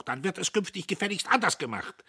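high, loud angry parting order; shouting. A narrator's reading. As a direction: shout a last command to save face. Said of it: "Er schrie noch".

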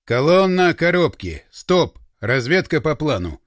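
slow, emphatic convoy command; radio order. A narrator's reading. Anton halts the convoy for reconnaissance, radio order. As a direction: give a deliberate order over the radio. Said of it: "Антон добавил".

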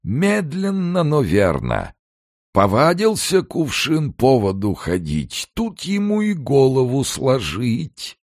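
high, slow, sanctimonious declaiming; unctuous triumphant recital. A narrator's reading. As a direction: preach it smugly like a pious hypocrite. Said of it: "елейно и торжествующе продекламировал".

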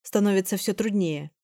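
usual speaking voice

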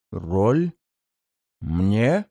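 low rasping surprise, rising; startled ancient demon asking back; low surprised demon. Acted. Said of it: "Почти искренне удивился".

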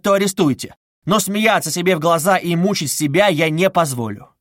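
mild restrained anger; indignant accusation. Acted. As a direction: confront the investigator, voice rising. Raskolnikov confronting Porfiry.

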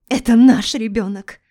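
screaming, high and loud; hysterical scream. Acted. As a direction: cry it out in hysterics. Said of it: "истерично закричала она".

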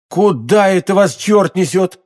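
high, urgent alarmed call; alarmed cry. Acted. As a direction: call out to stop him, alarmed. Trying to stop a friend. (встревоженный окрик)

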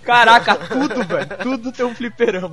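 loud amazed exclamation; excited. Real, not acted. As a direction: burst out in disbelief. Amazed at arcades everywhere.

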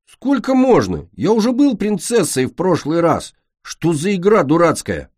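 high, indignant whining protest; fed up at playing the princess again; angry complaint. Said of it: "гневно вскинул чёрные крылья".

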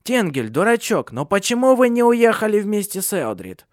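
put-on high, loud crone chiding a boy; scolding old woman. A narrator's reading. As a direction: scold him like a foolish youngster. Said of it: "относился к ужасному Тенгелю как к мальчишке".

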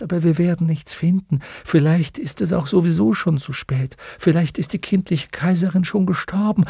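lightly voiced horse giving up; despairing horse. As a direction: Artax pleading to turn back, resigned. Artax losing hope.

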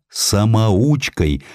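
ordinary delivery

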